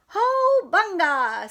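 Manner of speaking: high, slow squeal. Acted. Little sister squealing at Froggy's news, high. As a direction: squeal it with delight. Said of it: "squealed Poggy".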